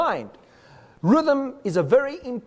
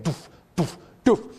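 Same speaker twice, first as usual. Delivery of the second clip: steady doof doof like a bass drum; beatbox the guiding pulse; even vocal drumbeat; drum pulse vocalized; 3 semitones lower than usual. Shown as a demonstration. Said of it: "the guiding pulse may be going".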